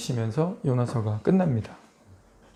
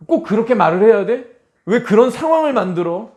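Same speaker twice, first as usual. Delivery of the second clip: mock complaint; 5 semitones higher, 5 dB louder than usual. Griping back at God.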